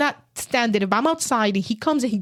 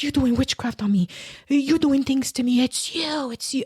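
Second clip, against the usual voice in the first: retold screamed accusation; 4 semitones higher than usual. Husband accuses wife's mother of witchcraft, retold screaming. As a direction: imitate his frantic accusing without full volume. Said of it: "he's screaming on my mom".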